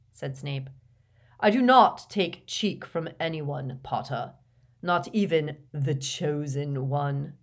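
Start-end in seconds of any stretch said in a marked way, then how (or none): 1.4-7.4 loud cold voice, slow mocking end; lightly voiced cold professor; Snape's cold sneer. A narrator's reading. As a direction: sneer the title.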